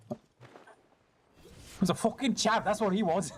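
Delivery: hammed-up British accent, teasing; mock British accent. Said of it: "I could sound more British if you want".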